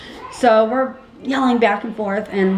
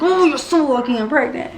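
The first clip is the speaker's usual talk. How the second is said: restrained mock yell, raised pitch; holding back anger; 4 semitones higher than usual. Pregnant mother fisted up at the other mom, holding back anger. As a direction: replay the angry warning, held in check. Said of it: "I'm holding myself back".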